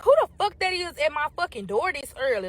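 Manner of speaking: annoyed, high-pitched outburst; indignant cussing. Retold or imitated. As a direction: cuss at whoever is out there. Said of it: "I'm cussing just like that".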